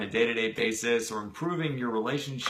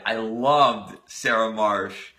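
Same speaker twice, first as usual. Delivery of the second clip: fond exclamation; 2 semitones lower, 6 dB louder, much slower than usual. Acted. Donald remembering his crush.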